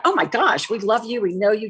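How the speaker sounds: gushing reassurance. Retold or imitated. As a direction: lightly imitate friends gushing their support. Retelling colleagues' gushing reassurance.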